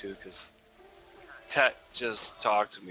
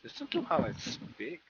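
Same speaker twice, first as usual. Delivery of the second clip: mock American accent; 10 semitones higher than usual. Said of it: "American accent".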